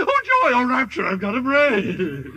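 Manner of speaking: squealing laugh of delight; rapturous joy. Acted. Scarecrow delighted with his new diploma, laughing. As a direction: burst with joy at the gift.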